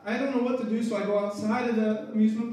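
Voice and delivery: high-pitched, tearful voice pushing through sobs; real crying. Real, not acted. Preacher reliving losing his son, crying. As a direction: choke out the words through real tears. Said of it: "I'm sorry I'm crying so much".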